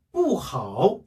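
"뿌" falling strongly, "하오" in a dipping third tone; strong-weak tones on "뿌하오"; fourth-tone 뿌. Shown as a demonstration. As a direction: hit "뿌" hard, then dip on "하오". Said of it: "앞에 강하게 읽어주는".

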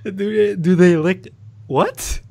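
disbelieving high question; incredulous. Real, not acted. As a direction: ask it in total disbelief. Incredulous repeat of odd question.

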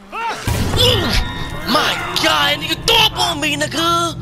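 high, loud disgusted screaming; terrified scream. Real, not acted. Creature throws up on him.

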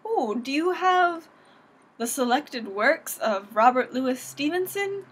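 lightly acted patron's question, drawn out slowly; library patron. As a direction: ask slowly, playing a hopeful library visitor. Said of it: "go in there and be like".

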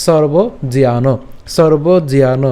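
"সর্বজিয়ান" slowly as one word; joined pronunciation. Shown as a demonstration. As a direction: draw out "সর্বজিয়ান" without breaking it. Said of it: "ভেঙে না উচ্চারণ করে একসাথে". ("সর্বজিয়ান" একসাথে টেনে উচ্চারণ)

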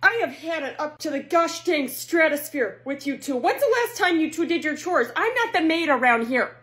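exasperated mother scolding; fed-up mom lecture. Acted.

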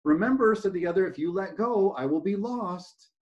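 steady read-aloud storytelling voice; story narration. A narrator's reading. Speaker reading a parable to a talk audience, storytelling voice.

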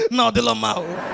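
tearful lament with laughs breaking through; put-on wail, dropping away softly; mock crying. A cheated laptop buyer wailing in the shop, mock crying. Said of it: "the guy shop, they cry".

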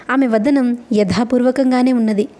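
ordinary delivery

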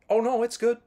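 chirpy fake politeness through scalding water; mock polite squeak. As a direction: pretend it's fine in a tiny high voice. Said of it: "you still have to tell them".

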